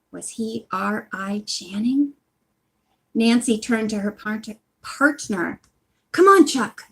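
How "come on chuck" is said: high, loud urgent call; urging. A narrator's reading. Nancy urging Chuck off the ice, high and loud. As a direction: hurry her partner along. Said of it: "she urged".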